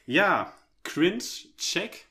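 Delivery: loud, high cringe call; excited exclamation. Real, not acted. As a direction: shout it out laughing at yourself. Loud self-mocking exclamation.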